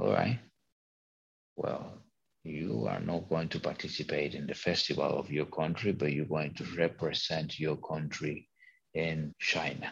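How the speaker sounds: cold, menacing, scary sarcastic tone. Retelling what a woman said to her after she refused, imitating sarcastic, scary tone. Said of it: "And in a very sarcastic, scary way, she said to me".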